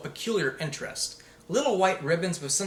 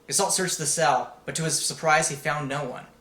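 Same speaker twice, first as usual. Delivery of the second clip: ordinary delivery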